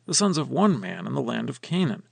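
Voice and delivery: measured, earnest Bible reading voice; scripture reading. Acted. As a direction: read the passage aloud like a lesson text. Scripture reading before commentary.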